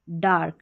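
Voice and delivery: डार्क with a long "ar"; डार्क, vowel and r sounded together; a joined to r. Shown as a demonstration. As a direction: run the a into the r in डार्क. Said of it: "यानी ए आर लग के आ रहा है".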